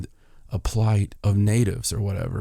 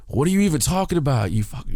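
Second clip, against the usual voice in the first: retold rant; 6 semitones higher, faster than usual. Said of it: "just going off".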